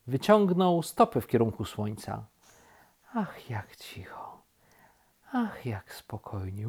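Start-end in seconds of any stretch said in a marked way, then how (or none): 3.1-6.7 very soft, slow, savouring whisper; blissful whisper. A narrator's reading. Rabbit enjoys peace and quiet, whispering blissfully.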